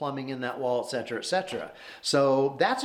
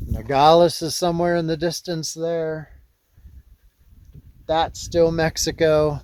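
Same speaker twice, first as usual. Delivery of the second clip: raised voice against strong wind; shouting over wind; 6 dB louder than usual. Real, not acted. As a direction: project hard over the gusts. Windy mountaintop, talking over wind.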